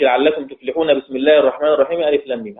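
fast recitation, all joined in one breath; quick run-on recitation. Shown as a demonstration. Teacher showing the forbidden joining, recited fast. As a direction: rattle it off without stopping. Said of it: "هذا الوجه ممتنع".

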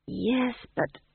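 high, faltering protest; understated wretched hesitation; wretchedly. A narrator's reading. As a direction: begin to object, miserably. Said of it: "she said wretchedly".

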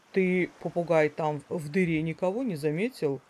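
a hint of a dim, friendly snake. Boa speaking in story.

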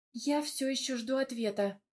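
ordinary delivery

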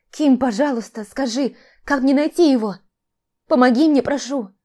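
high, loud, desperate plea; pleading. A narrator's reading. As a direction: beg him urgently. Sister begs her brother.

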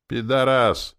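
a lightly voiced sassy girl heckling; saucy girlish retort; cheeky girl's voice. A narrator's reading. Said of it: "дерзким девичьим голосом".

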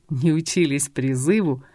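low scornful echo, stress on не; contemptuous scoff. Acted. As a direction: scoff back at her words with scorn. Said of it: "презрительно усмехнулся Геральт".

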